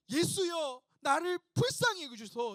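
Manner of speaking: loud, high cry for mercy; shouted plea. Acted. Blind beggar calls to Jesus from the crowd, shouting. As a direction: call out urgently, pitched well up. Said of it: "소리 지르면서".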